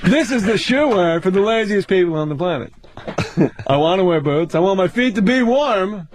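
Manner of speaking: lightly imitated observational stand-up delivery; Jerry Seinfeld. Comic riffs on women's boots, light stand-up impression. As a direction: set up each phrase, pausing between them. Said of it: "Seinfeld, what's the deal".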